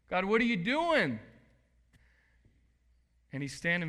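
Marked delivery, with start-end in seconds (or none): 0.1-1.2 a louder, only slightly raised repeat; milder echo. Pretend. Pastor asking the congregation, a milder raised echo. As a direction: say it again, half pleading. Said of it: "You feel like that sometimes?".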